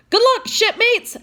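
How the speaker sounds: high, loud farewell call across the water; cheerful call. Acted. Sailor calling farewell across to the crew, loud and high. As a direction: call out good luck to the departing crew.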